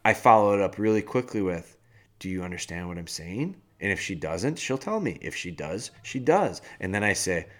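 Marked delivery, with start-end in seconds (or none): 2.2-3.5 low, quiet, firm check for understanding; firm dad. Retold or imitated. Dad following up with his two-year-old, quietly firm. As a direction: imitate a parent firming up without yelling. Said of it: "use that tone of voice".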